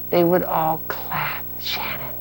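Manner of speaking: hushed storytelling whisper. Acted. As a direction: breathe it to her like a secret. Whispering fantasy to child.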